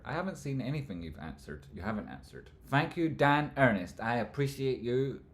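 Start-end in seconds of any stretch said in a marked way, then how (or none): 2.7-5.2 higher, louder and slow gushing thanks; big grateful thank you; effusive thanks. Real, not acted. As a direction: overplay the gratitude.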